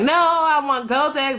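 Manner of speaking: put-on high, drawn-out childish wail; hammed-up high-pitched protest; mock whining. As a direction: whine for the lost girlfriend, exaggerated. Acting out her refusal of comfort.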